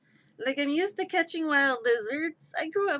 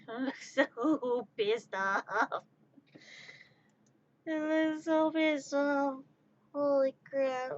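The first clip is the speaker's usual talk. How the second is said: words stretched out slow; slow, drawn-out amused reaction; amused drawl; slower than usual. Real, not acted. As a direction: drag it out in amused disbelief. Amused reaction to grumpy lizard.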